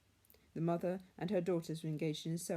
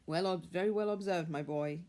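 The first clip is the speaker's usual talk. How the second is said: louder, warmly delighted praise; a father cheering his son; hearty cry; 4 dB louder than usual. A narrator's reading. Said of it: "cried Bob".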